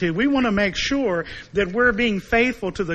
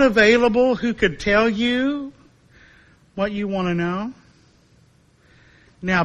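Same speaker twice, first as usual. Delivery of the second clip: sarcastic disdain. Acted. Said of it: "the disdain in the voice of the prophet".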